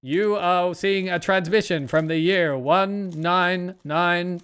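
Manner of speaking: slow, measured transmission voice; slowly dole out a recorded broadcast; imitated eerie transmission. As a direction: lightly mimic a spaced-out warning message. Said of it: "this really cool audio effect".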